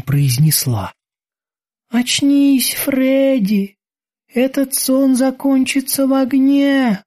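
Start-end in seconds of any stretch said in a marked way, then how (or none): 1.9-7.0 put-on high, slow, insinuating child voice; creepy little girl. A narrator's reading. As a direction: coax him like a sinister little girl. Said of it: "вкрадчивым, замогильным голосом". (вкрадчивый замогильный детский голос)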